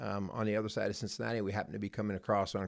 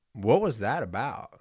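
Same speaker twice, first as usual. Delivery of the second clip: a touch of harsh demand; retold harsh challenge; 4 dB louder than usual. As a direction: mildly confront her, a bit louder. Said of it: "I said it in that sort of harsh".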